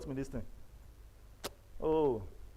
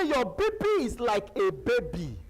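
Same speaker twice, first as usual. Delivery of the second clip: retold nurse; 7 semitones higher, 4 dB louder than usual. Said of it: "He said".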